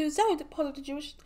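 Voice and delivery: usual speaking voice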